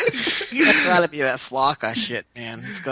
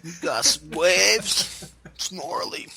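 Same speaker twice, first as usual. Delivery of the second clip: slow, lazy surfer bro drawl; hint of a stoned Malibu surfer; surfer dude voice; 3 semitones higher, 3 dB quieter, slower than usual. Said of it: "talking like a Malibu surfer".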